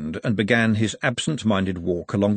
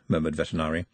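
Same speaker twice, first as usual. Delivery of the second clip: usual speaking voice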